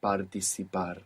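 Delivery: "Participar" split into clear syllables; "Participar" slow and separated; staccato. Shown as a demonstration.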